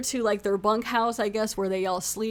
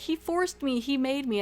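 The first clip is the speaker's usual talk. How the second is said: higher-pitched imitation of a protesting wife; mock protest; 5 semitones higher than usual. Wife blames the man to her husband, mock protest. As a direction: put on a high, pleading accusation. Retelling accused wife's protest from scene.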